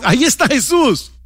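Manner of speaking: demons voiced. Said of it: "habitados por demonios que dicen".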